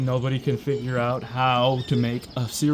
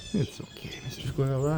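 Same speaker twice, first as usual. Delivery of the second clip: very high, soft squeak; squeaky reassurance; 7 dB quieter than usual. Real, not acted. Calming the squirrel, a tiny high squeak. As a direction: squeak it gently.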